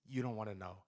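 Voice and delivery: low, quiet menace; imitating a tough guy's ominous reply; ominous stare-down. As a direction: drop it low, like a grim warning. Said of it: "dead in my soul".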